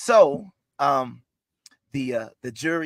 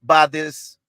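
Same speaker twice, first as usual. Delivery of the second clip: slow announcement; 6 dB louder, much slower than usual. Acted. Announcing judge's ruling.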